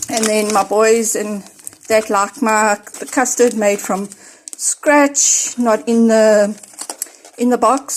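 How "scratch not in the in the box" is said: breathless while unpacking; out of breath. Real, not acted. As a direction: talk through short breaths. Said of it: "I'm a bit out of breath".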